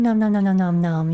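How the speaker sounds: playful chomping nom noises; snapping teeth. Pretend. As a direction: chomp like a hungry critter. We eat them up.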